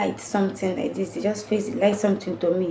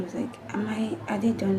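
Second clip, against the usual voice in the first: weak whisper; faint breathy question; 5 dB quieter than usual. Retold or imitated. Weak after surgery.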